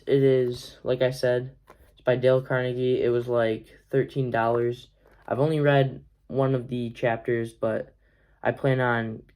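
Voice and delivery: stuffy congested voice; talking through a congested nose. Real, not acted. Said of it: "I'm a little congested".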